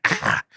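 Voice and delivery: small mock shriek; short, contained mock scream; imitated child's scream. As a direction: imitate a child's scream without full force. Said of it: "screaming at her".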